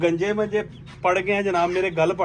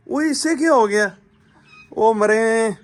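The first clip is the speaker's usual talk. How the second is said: sudden high, louder gasp of alarm; shocked surprise; 4 semitones higher, 4 dB louder, slower than usual. Real, not acted. Owner discovers the rooster's shaved head, startled high cry. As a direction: react like you just spotted the wound. Finds the chicken's head wounded.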